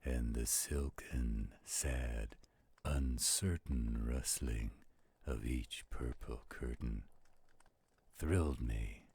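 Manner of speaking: slow, hushed, rhythmic recitation with a few whispered lines; dramatic poem reading. Acted. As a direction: draw the listener into a gloomy midnight tale. Recites the third stanza.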